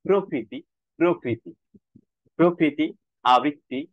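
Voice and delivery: প্রকৃতি as "pro-kriti", single k; model pronunciation. Shown as a demonstration. Teacher gives similar examples, light model pronunciation. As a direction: keep প্রকৃতি and আবৃত্তি free of doubling. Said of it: "তেমনি".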